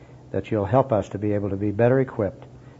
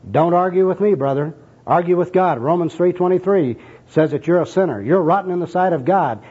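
raised, argumentative preaching; enthusiastic street evangelist; 6 semitones higher than usual. Acted. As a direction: hammer it home at a higher pitch. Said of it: "here's the first personal worker".

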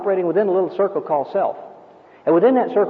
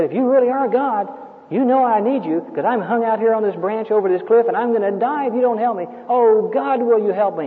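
frantic pleading; 4 semitones higher than usual. Retold or imitated. Man pleading from cliff branch.

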